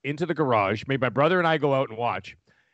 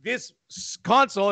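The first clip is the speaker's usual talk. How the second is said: angry dad voice; 10 semitones higher than usual. Retold or imitated. Dad smashing console, voiced.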